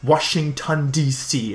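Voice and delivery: "Washington, D C" drawn out as a mocking American accent; mocked American accent. Friend's mom repeats his hometown, mocking American accent. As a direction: echo "Washington, D C" slowly, teasing the American accent. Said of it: "his mom made fun of my accent".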